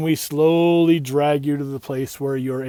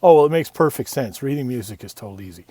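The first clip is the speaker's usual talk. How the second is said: mock condescending teacher; 2 semitones lower, 3 dB louder than usual. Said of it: "music teachers taking little kids aside and saying things like".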